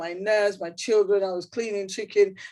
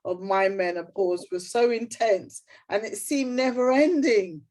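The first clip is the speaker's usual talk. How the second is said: reading aloud; 4 semitones higher than usual. Shown as a demonstration. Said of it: "And I wrote".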